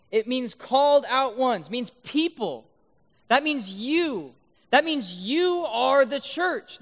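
forceful proclamation, word by word; emphatic preaching. Real, not acted. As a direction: drive the point home, stretching the key words. Preaches the point at full force.

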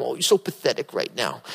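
put-on softly cooing like a grandma to a sick child; a gentle coo over a feverish baby; grandma hugging a sick great-grandkid, cooing softly; tender grandma. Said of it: "she'd be hugging them".

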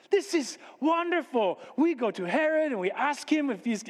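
high-pitched, pleased foreign visitor; delighted magus. Acted. Magus tells host about visiting Herod, delighted.

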